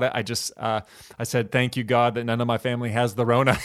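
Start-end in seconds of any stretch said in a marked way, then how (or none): 1.5-3.6 laughing. Real, not acted. Quoting own funny prayer.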